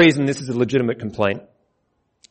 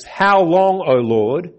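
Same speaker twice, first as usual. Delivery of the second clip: lament cry; 3 semitones higher, 3 dB louder, much slower than usual. Retold or imitated. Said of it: "take words like this".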